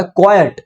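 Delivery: क्वाइट as "KWAI-yut", two beats; two-syllable pronunciation. Shown as a demonstration. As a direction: sound a "yut" at the end of क्वाइट. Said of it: "इसकी जो pronunciation है".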